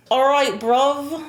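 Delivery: attempted British "All right, bruv"; British accent. Shown as a demonstration. Partner asked to mimic British baby, tentative British accent. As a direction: try a British accent, unsure of it. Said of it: "Can you do the accent?".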